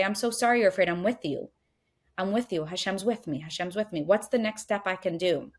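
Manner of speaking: put-on like a mother calming her scared child; soothing mother. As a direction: hold the fear gently like a mother. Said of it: "what does a mother do when their child's afraid".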